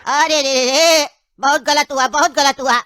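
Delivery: laughing mock pity.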